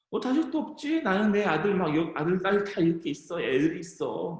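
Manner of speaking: high, sing-song gloating; mocking rival. Rival wife boasting of her children, mocking. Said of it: "되게 막 얄밉게 막 하는 거예요".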